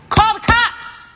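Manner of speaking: high, drawn-out yell for help; desperate shout. Retold or imitated. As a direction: scream it slowly at full pitch. Desperate cry to mother on phone.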